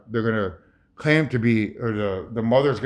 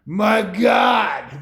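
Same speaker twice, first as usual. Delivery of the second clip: higher, louder awed cry of my god; imitated awe, looking up; quoted exclamation; 7 semitones higher, 3 dB louder than usual. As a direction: gasp it out like he is seeing something in the sky. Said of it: "you're gonna hear this guy say".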